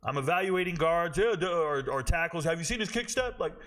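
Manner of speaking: high-pitched show-off impression; mock film analyst. Film channel showing off jargon, high mocking voice. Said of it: "And I'm just like".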